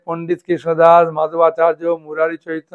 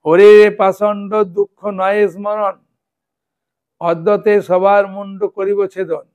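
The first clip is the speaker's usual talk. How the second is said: raised, mildly thundering recital of a threat; retold wrathful roar; 2 semitones higher, 5 dB louder than usual. Angry goddess threatens the mockers in a dream, mock roar. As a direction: recite it as a goddess's loud rebuke, held back from shouting. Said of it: "একদম গর্জন করে পাষণ্ডীগণকে বলছেন".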